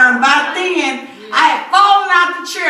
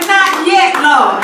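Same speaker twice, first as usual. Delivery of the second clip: loud plea; 6 dB louder, slower than usual. Retold or imitated. Retold plea repeated.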